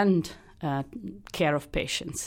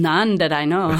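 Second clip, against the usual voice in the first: laughing; 6 dB louder than usual. Real, not acted. Joking reply, laughing.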